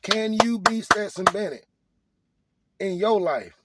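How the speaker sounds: shouted challenge. Acted. Rallying broken-down listeners with a loud shouted challenge. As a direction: shout it at the doubters.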